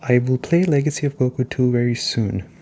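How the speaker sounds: ordinary talk, nothing marked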